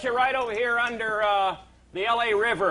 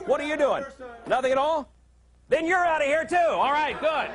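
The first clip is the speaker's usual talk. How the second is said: hammed-up higher angry boss; mock firing rant; 4 semitones higher than usual. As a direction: fire them all, for laughs. Host firing staff in mock rage.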